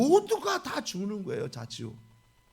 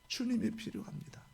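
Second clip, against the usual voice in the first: ordinary delivery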